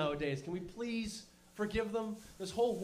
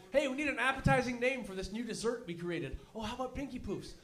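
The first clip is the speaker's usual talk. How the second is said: mock French inventors; 5 semitones higher than usual. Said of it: "What the hell were they thinking?".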